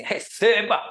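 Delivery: put-on high, loud child's goal cry; little boy's shout. Architect imitating a small boy copying Ronaldo, high excited shout. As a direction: shout it like a small kid celebrating. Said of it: "e aí o moleque tava assim".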